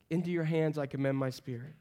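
understated dying words; dying breath. Acted. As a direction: quietly give up the last breath. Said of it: "in his dying breath".

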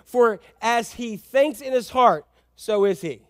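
slow scripture reading. Shown as a demonstration. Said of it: "it says".

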